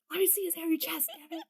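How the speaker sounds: high giggle then high mock complaint; giggling. Real, not acted. Laughing about PG scene.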